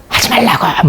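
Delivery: retold yell. Angry listener refusing her friend's encouragement, mildly yelled. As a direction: act out an angry outburst without full volume. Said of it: "막 이렇게 소리도 지르는 거예요".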